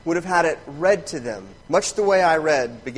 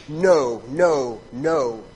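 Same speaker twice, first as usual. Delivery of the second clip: loud NO, easing on each repeat; emphatic no; 5 dB louder, much slower than usual. Shown as a demonstration. Preacher renders Paul's answer to the objection, emphatic. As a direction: hit each separate NO firmly. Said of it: "the most emphatic no".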